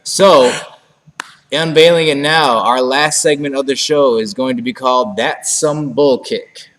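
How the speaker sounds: grand unveiling. Acted. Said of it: "we are going to now unveil".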